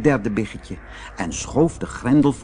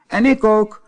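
high squeaky piglet voice; tiny piglet chiming in; little pig voice; 10 semitones higher, 5 dB louder than usual. Acted. Derde biggetje antwoordt. (hoog biggetjesstemmetje)

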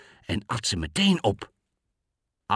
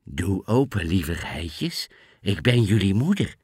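sweetest voice; 2 semitones lower than usual. Acted. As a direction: coax lightly as the wolf. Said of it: "met zijn liefste stem".

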